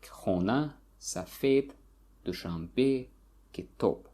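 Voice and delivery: Khona, Safed, Dushanbe, Kitop, each stressed on its final syllable; word by word, last syllable stressed in Khona, Safed, Dushanbe, Kitop. Shown as a demonstration. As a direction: list Khona, Safed, Dushanbe, Kitop with weight on every ending. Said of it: "falls on the last syllable".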